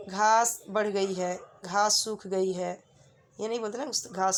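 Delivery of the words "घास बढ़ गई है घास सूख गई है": slow, deliberate example sentences; slow model sentences. Shown as a demonstration. Teacher modelling feminine usage slowly for students. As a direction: spell each sentence out slowly for the class. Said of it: "जैसे बोलते हैं हम कि".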